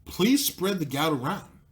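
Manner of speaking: slow mock appeal rising at the end; sarcastic plea, pushed. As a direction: lean on please and lift the end, mocking. Mock plea repeated, pushed harder.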